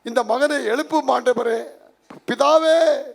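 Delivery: hammed-up plea to God, crying out on the address; mock tearful prayer. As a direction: act out a tearful, begging prayer. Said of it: "ಹತ್ಕೊಂಡು pray".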